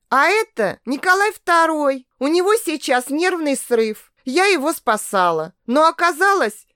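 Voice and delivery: high, flustered and rushed; flustered rambling. Acted. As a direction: babble it out, flustered. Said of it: "сбивчиво говорила".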